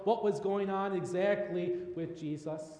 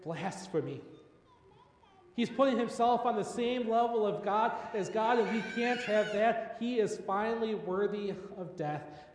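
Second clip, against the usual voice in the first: outraged accusation; 5 semitones higher, 3 dB louder than usual. Acted. Priests outraged at Jesus' claim.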